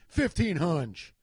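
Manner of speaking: "Fifteen hunch" drawn out casually; unbothered, stretched-out "Fifteen hunch"; casual price quote. Retold or imitated. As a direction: slowly announce "Fifteen hunch" as a retold quote. Quoting the price matter-of-factly.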